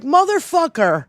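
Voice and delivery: rising into a loud furious outburst; angry retort. Retold or imitated. Yelling back at Dinky who called veterans suckers and losers, furious. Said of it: "I was like".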